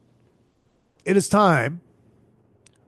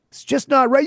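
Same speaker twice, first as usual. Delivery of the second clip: indignant raised repeat; raised indignant complaint; 5 semitones higher than usual. Real, not acted. Repeats complaint, low then raised.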